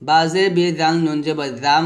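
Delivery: measured spelling ending in a hummed "জাম"; nun read as mim. Shown as a demonstration. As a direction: close the lips and hold the end of "জাম". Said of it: "জাম বলতে হবে". ("জাম", শেষে গুন্নাসহ মিম)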